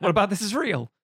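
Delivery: a touch of mock outrage at the film; mock exasperated rant. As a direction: scoff at the silly plot as if fed up.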